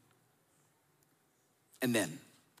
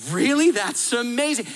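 a high, louder "Really?" of delighted disbelief; mock amazed surprise; 5 semitones higher, 4 dB louder than usual. A customer gasps at the mortgage company's offer, mock amazed. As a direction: gush like you can't believe your luck.

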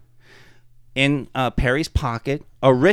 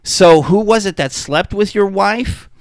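high, louder innocent question; 8 semitones higher, 6 dB louder than usual. Retold or imitated. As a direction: ask it wide-eyed and blunt. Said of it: "Perry's like".

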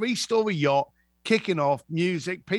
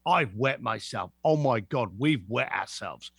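mock scared; 6 semitones lower than usual. Mock fear at threat.

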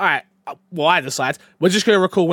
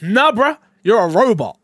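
robot software voice; 3 semitones higher, 4 dB louder than usual. Retold or imitated. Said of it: "R T X voice is like".

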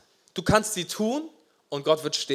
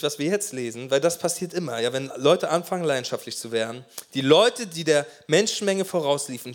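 normal talking voice

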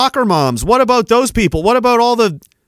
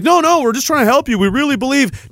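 higher-pitched mimicry of pleading officials; mock reassurance; 4 semitones higher than usual. Speaker mimics officials claiming they only want to help, mock reassuring. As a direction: imitate an insincere helper protesting.

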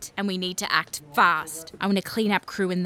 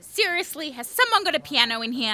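shrieked protest; 12 semitones higher than usual. Acted. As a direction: yell it to cut the song dead. PM yelling to stop song.

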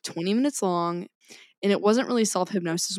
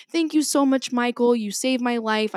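high-pitched mock gushing; gushing imitation; 5 semitones higher, 4 dB louder than usual. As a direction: imitate an overjoyed, grateful commenter. Imitating grateful video commenters.

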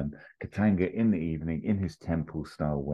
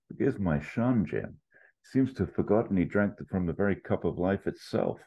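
Connery impression; 4 semitones higher than usual. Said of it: "your face turned into your Connery face".

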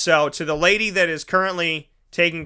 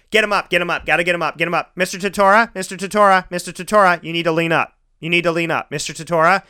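louder, insistent repeated calls; urging nurse; 2 semitones higher, 3 dB louder, faster than usual. Retold or imitated. Nurse to waking patient, louder and insistent. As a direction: keep calling his name to rouse him.

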